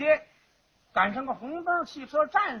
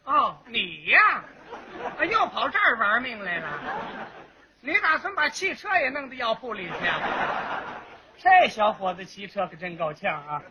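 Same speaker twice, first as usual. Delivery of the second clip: put-on old man's scolding. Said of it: "老头儿一瞧".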